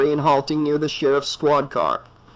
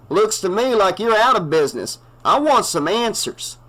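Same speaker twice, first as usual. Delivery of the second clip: gruff townie; 7 semitones higher, 3 dB louder than usual. A narrator's reading. Earl demands of the sheriff what is going on, indignant.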